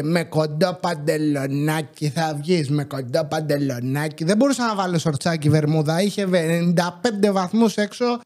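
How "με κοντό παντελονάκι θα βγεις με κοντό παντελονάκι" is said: grandma scolding. Retold or imitated. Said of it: "Έβγαινα και μου έλεγε".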